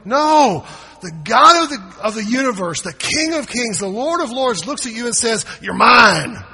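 shouting, high and loud; full-force preaching. Acted. Preacher shouting to the church that God claims them. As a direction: preach it out at the top of the voice.

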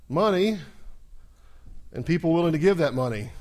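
loud, high proclamation; emphatic preaching shout. Real, not acted. Preacher to congregation, rousing loud proclamation. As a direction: drive the refrain home to the crowd.

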